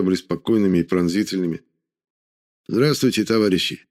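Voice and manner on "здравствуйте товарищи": put-on light Georgian accent. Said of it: "произнёс он с лёгким акцентом".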